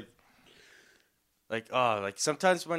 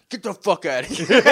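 laughing; 5 semitones higher, 9 dB louder than usual. Real, not acted. Laughing retold dismissal.

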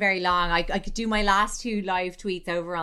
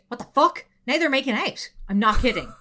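higher, loud disbelief; shocked onlooker; 5 semitones higher, 7 dB louder, faster than usual. Retold or imitated. Onlooker live-tweeting the couple, loud shocked disbelief. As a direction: gasp it out, astonished. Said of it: "Kelly Keegs update".

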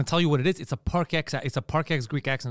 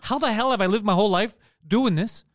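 higher-pitched mock-appalled disbelief, building; exasperated realization; 4 semitones higher than usual. Man recalling realizing his slang is nonsense, exasperated disbelief. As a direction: retell a dawning shock at yourself.

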